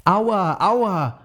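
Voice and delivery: put-on high, loud child's cry of pain. Emma, after falling on the stairs, cries out high and loud. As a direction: yelp it out like a hurt little girl. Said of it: "Sie schreit laut".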